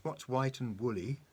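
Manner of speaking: high, slow teasing pig voice with the baa drawn out; pig asking a riddle, straight face. A narrator's reading. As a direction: hold back a giggle as the pig. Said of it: "trying to keep a straight face".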